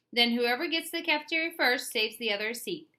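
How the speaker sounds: high, loud excited squeal. A narrator's reading. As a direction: squeal it with glee. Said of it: "Carla squealed".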